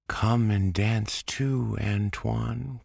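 put-on high, bright child calling out; calling girl. A narrator's reading. Babette calls her brother to dance, high eager call. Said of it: "called Babette".

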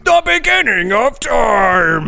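booming, slow movie-trailer echo; dramatic trailer voice. Acted. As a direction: proclaim it like an epic trailer.

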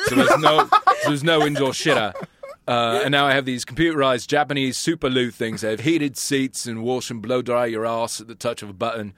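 amateur attempt at a Birmingham accent; Brummie accent. Quizmaster reading a memoir quote in an attempted Brummie accent. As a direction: have a shaky go at Brummie. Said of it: "gonna try this in a Brummie accent".

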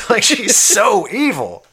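high, slow laughing remark. Real, not acted. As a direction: laugh through the words. Laughs about the villain.

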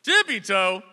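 high, loud incredulous punchline; hammed-up shocked yell; mock disbelief. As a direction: shout it as a stunned callback. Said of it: "I was like".

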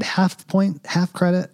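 high, loud self-awarded point; gleeful little victory call; excited. Acted. Celebrating own prediction.

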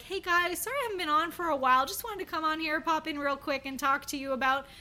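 lightly voiced influencer saying sorry for being away; mock YouTuber. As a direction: rattle off a lightly parodied vlog intro. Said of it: "people that are like".

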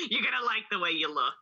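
lightly voiced spin doctor; a hint of salesman's assurance. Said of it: "that's the voice that I use".

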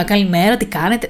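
chatty good morning with a lifted end; mock the outgoing hello that invites small talk; sociable greeting, imitated. The greeting she never gave coworkers, mock sociable. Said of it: "Δεν έλεγα".

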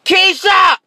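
put-on shouting a kid's name from downstairs; mama yelling. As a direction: call up the stairs like an angry mom.

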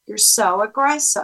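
calm, neutral echo of their words. Shown as a demonstration. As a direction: repeat it back evenly, without arguing. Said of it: "say it in a calm way".

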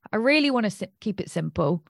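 breathy whispered start. Real, not acted. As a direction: breathe it out unvoiced. Whispered aside.

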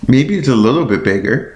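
said through a yawn. Real, not acted. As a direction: stretch it out mid-yawn. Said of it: "I yawned".

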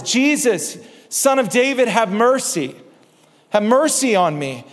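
mildly voiced cry for mercy. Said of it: "he begins to cry out".

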